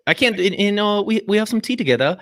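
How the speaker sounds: put-on British accent, slightly lifted. Host showing off to British guest, British accent. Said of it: "I could do the British accent".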